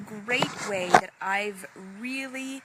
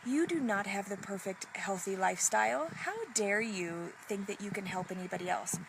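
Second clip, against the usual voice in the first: scornful inner voice. Retold or imitated. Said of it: "It would say".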